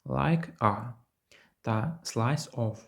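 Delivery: "Like a" and "slice of" run together with no gap; linked pronunciation. Shown as a demonstration. Teacher demonstrating linked sounds to students. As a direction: join the final consonant straight into the vowel. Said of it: "Тут є два приклади".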